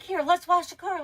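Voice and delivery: put-on high, loud sing-song invitation to a child; coaxing a toddler. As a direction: imitate her cheerfully luring the kid into a game. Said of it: "She's like".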